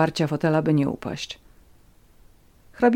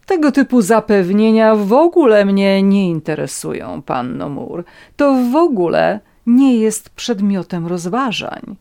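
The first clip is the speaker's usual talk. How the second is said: raised, loud, peremptory cut-off; haughty dismissal; 4 semitones higher, 6 dB louder than usual. A narrator's reading. Countess cuts off Natalia's assurances, haughty and forceful. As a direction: shut her down imperiously.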